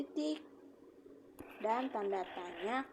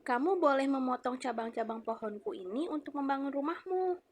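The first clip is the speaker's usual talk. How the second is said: higher, louder kind tree speaking; a tree giving its branches to the boy; quoted speech; 4 semitones higher, 5 dB louder than usual. Shown as a demonstration. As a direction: offer your branches gladly. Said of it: "Ibu akan mencontohkan".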